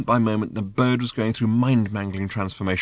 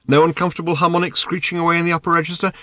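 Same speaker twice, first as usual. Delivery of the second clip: quick, higher tenor patter; pleasant light tenor; 7 semitones higher, faster than usual. A narrator's reading. Bird asking about screeching harmonics, light quick tenor. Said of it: "in a pleasant, light tenor".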